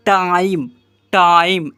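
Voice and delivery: टाइम repeated with a full "eye" vowel. Shown as a demonstration. Teacher drilling pupils, टाइम with a clear "eye" vowel. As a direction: say टाइम as "taa-im", final E silent. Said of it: "ऐसे पढ़ रहे हैं".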